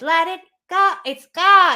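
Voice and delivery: Elsa's forward twang, placed in the nose; a hint of Elsa on a song. Shown as a demonstration. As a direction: sing it the way Elsa would, forward. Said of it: "Whereas Elsa is".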